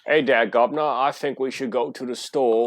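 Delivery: lightly put-on Cockney accent; mock English accent. Joining in mocking the accent, playful Cockney accent. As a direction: play at a cheeky British accent. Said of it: "I hate that accent".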